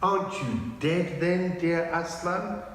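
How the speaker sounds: high, hushed hopeful question; hopeful wonder. A narrator's reading. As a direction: ask in disbelief. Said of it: "said Lucy".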